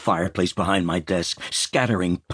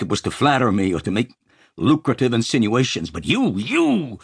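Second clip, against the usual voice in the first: exasperated; 6 semitones higher, 4 dB louder than usual. Acted. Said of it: "Dunbar, his face flushing".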